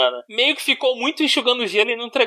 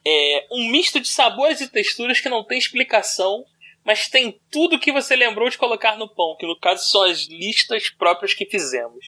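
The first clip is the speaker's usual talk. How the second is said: formal reading; 2 semitones lower than usual. Acted. Reads the text aloud.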